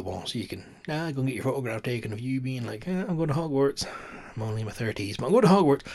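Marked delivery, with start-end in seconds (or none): 2.9-5.8 high, loud giddy tourist voice; excited tourist. Retold or imitated. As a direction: gush like a kid off to school. Imitating excited tourist at platform.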